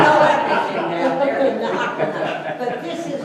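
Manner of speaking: real laughter carried into the punchline; laughing while talking. Real, not acted. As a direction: keep laughing as you finish the joke. Laughing through her joke.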